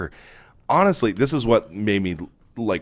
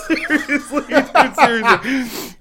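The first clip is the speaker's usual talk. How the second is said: laughing; 3 dB louder, much slower than usual. Real, not acted. Laughing at stoned memory.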